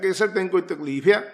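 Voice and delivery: insisting loudly down the phone line; forceful retold question. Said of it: "ਤੀਜੀ ਵਾਰੀ ਨਾ ਖਿੱਚ ਕੇ ਬੋਲਿਆ".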